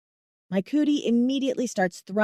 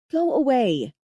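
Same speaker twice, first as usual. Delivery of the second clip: annoyed; 5 semitones higher, 3 dB louder than usual. Acted. Annoyed, slapping his hand.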